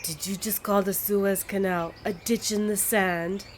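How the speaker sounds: put-on a touch of an offended French accent; indignant French envoy, lightly voiced. Frenchman offended at the ditch remark, mild French accent. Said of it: "horrible attempt at a French accent".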